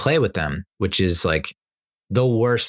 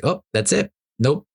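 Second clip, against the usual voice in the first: fed up; 8 semitones higher than usual. Retold or imitated. Seeing daughter tattling.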